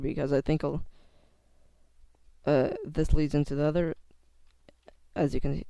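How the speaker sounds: real nervous stutter, words catching. Real, not acted. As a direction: stumble over the words nervously. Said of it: "you can hear that I'm stuttering".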